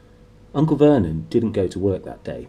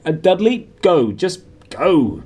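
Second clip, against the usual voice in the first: breathless order; 7 semitones higher, 5 dB louder, slower than usual. Acted.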